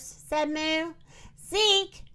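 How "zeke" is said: high-pitched storybook call; short call, pitched up. A narrator's reading. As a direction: call the name out to a friend. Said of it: "Moo called".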